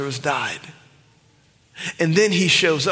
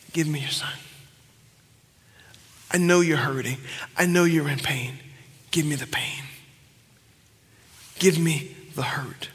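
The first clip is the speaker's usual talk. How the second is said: tender prophet; 3 dB quieter than usual. Acted. Elijah voiced gently to widow.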